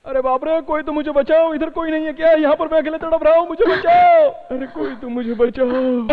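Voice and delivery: high, pleading call for help; desperate plea; crying out in pain. Acted. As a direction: wail for rescue, alone and hurting. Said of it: "कोई दर्द से चिल्ला रहा है".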